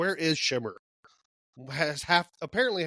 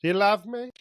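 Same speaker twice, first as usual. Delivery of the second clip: put-on Old Greg voice; 5 semitones higher than usual.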